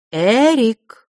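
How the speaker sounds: loud, high demand; sharp call. A narrator's reading. Няня резко окликает мальчика. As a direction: snap his name.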